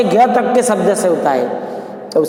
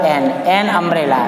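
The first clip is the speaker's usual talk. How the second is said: slow dictation; 2 semitones lower, much slower than usual. Shown as a demonstration. Teacher dictating the example.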